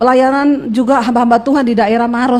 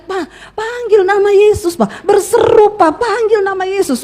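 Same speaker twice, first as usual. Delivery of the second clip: higher, drawn-out urgent plea; mock cry out; 5 semitones higher, slower than usual. Wife begs dying husband to pray, acted high crying out. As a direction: urge him on without full shouting. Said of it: "dia teriak".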